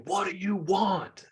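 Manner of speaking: high, drawn-out grumpy demand; retold yell. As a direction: imitate a hostile old man, stretching the words. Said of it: "yelled at me".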